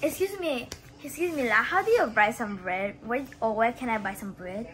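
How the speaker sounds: light Singaporean accent with la; asking for bread in Singlish. Shown as a demonstration. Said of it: "Can you make a sample".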